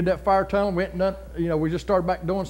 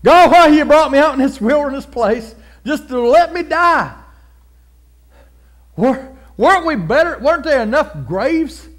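louder, higher whining complaint; complaining Israelites; 8 semitones higher, 8 dB louder than usual. Retold or imitated. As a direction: moan at Moses like a grumbling crowd. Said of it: "Pastor Mo said".

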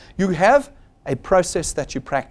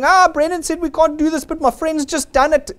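mock complaining; 12 semitones higher, 4 dB louder than usual.

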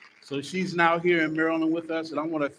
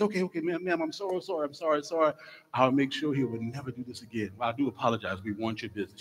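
apologetic manager; 5 dB quieter, faster than usual. Acted. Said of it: "The manager says".

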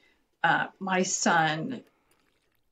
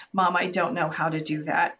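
calm reply; 2 semitones lower than usual. Retold or imitated. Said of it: "very calmly said".

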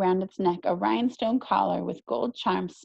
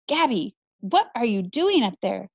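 hollering; 3 dB louder than usual. Acted. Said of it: "Alma hollered".

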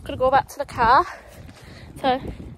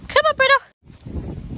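high, slow, drawn-out coaxing; coaxing the dog; 13 semitones higher, 6 dB louder, much slower than usual. Real, not acted. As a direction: stretch the words out high to lure him.

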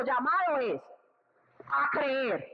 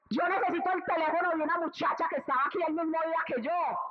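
excited call; 5 semitones higher, faster than usual. Pretend. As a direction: burst in asking for her, thrilled. Healed woman excitedly asking nurses. (la señora sanada pide el teléfono a las enfermeras, emocionada y fuerte)

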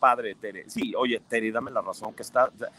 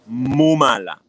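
a light Andalusian muy mala; Andalusian lilt; 7 dB louder, much slower than usual. Retold or imitated. Teasing a singer in a mild Andalusian accent. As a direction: stretch the mala the southern Spanish way. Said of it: "así dicho".

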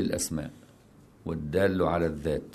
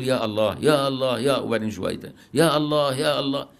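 calling out; 4 semitones higher than usual. Shown as a demonstration. Teacher imitating the Shadhili prayer refrain, raised and pleading. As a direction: cry يا الله upward like a plea. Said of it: "يقول".

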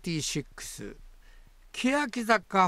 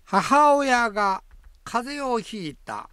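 mock dramatic reading; 7 semitones higher, 7 dB louder, slower than usual. Reading listener's phrase theatrically.

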